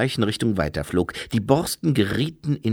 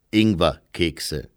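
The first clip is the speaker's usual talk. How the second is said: slow repeat; 5 semitones lower, slower than usual. Acted. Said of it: "wiederholte Herr Weiss".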